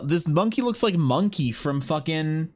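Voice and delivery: high, delighted judge of monkeys; high excited praise for a good monkey; gushing praise. Real, not acted. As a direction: hype up the drawing like a proud judge.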